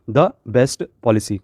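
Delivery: the best policy read out slowly, each word clear; slow, stressed reading. Shown as a demonstration. Teacher reads the answer slowly to her students. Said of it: "हमेशा the लगाया जाता है".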